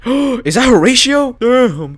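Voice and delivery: gasping, high and loud shock; slow, high-pitched disbelief. Real, not acted. Gamer first spotting Horatio in the son's drawing, shocked.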